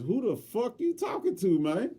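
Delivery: high, loud angry yell at a man behind him. Retold or imitated. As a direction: yell it to his face. Confronting the grumbling employee.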